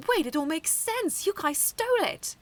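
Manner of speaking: loud, high shocked discovery; gasping realization. Acted. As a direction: gasp as it all clicks into place. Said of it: "Ikki gasped".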